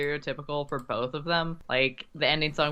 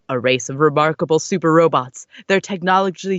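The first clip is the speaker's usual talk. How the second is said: narrator voice; 7 dB louder than usual. Acted. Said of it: "your best narrator voice".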